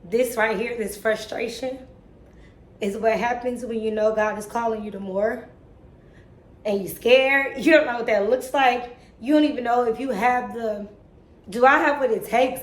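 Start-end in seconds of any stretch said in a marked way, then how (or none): 0.0-8.9 emotional. Real, not acted. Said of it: "I'm only emotional because".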